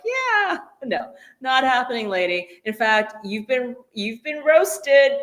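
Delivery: lightly mocked wannabe mobster; baby mobster. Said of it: "she's like baby mobster".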